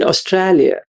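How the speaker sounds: attempted Aussie "Australia" with an open middle vowel; Australian accent. Shown as a demonstration. Teacher contrasts two ways of saying it, lightly imitated Australian accent. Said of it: "what's the difference between".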